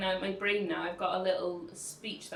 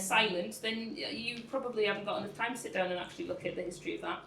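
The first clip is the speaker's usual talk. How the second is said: defiant; 2 semitones higher than usual. Retold or imitated. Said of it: "So I'm like".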